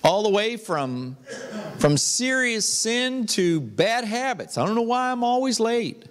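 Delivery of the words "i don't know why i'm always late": higher, quick exasperated self-questioning; rising, hammed-up frustration with yourself; mock self-reproach. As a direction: act out kicking yourself over a habit. Acted self-scolding over bad habits.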